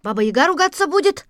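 a hint of an eager boy; young boy voice. Boy Mitya speaks. (звонкий мальчишеский голос)

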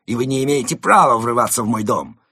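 loud, affronted protest; indignant. A narrator's reading. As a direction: declare it with offended dignity. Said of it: "возмутился Крот".

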